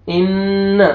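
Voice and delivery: इन्न with the doubled N hummed in the nose, short final vowel; ghunna on noon. Shown as a demonstration. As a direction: hold the N of इन्न, not the vowel. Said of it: "नून पे गुन्ना करेंगे". (इन्न में नून पर गुन्ना)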